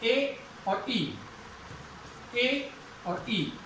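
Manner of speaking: "ए और ई" drawn out slowly, each vowel held; teacher spelling out the vowel glide; slow diphthong demo. Shown as a demonstration. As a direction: stretch out "ए और ई" so both sounds are heard. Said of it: "ये sound को".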